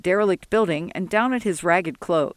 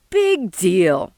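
grunted dismissal; 5 dB louder than usual. Acted. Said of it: "Sol grunted".

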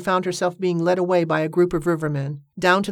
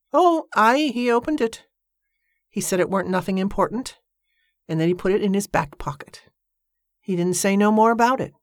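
simple Mattie; 4 semitones higher than usual. Acted. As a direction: play the innocent, offhand. Mattie's voice in dialogue.

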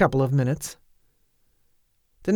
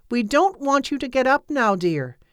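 tired but patient; 8 semitones higher than usual. A narrator's reading. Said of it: "tired but patient voice".

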